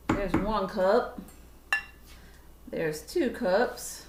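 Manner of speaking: slow, drawn-out southern accent. Real, not acted. Counting cups aloud for viewers, accidental southern accent. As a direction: slip into a leisurely southern twang. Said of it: "I just had a southern accent".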